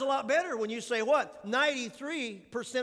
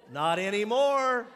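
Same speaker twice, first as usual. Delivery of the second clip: emphatic retort; 7 dB louder, slower than usual. Real, not acted. Joking retort about Cardinals.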